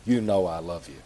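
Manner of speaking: low, soft, weary plea; a worn-down man pleading his love; exasperated Peter. Acted. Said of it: "gets exasperated".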